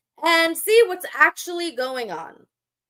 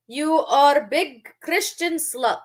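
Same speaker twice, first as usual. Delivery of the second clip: mock quote; slower than usual. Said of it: "You call me a slut".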